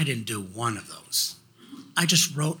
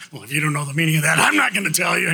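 fast, then louder and higher shouted comeback; cheeky retort; 3 semitones higher, 4 dB louder, much faster than usual. Retold or imitated. Son answering his father about the nasty note, fast shouted comeback. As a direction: fire it back like a smart-aleck kid.

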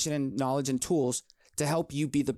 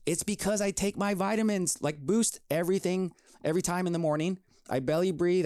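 upbeat, higher pitched and lively; energetic voice; 4 semitones higher than usual. Real, not acted. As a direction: pump energy into every word. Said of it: "you can hear the energy in my voice".

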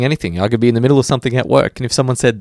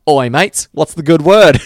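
mock Aussie PM; 5 semitones higher, 6 dB louder, slower than usual. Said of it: "The Prime Minister".

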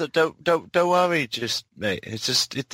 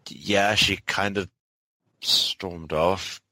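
low, slow, sheepish reply; awkward mumble; 4 semitones lower, much slower than usual. Acted. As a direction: shuffle and admit it awkwardly. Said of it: "shuffles on her feet".

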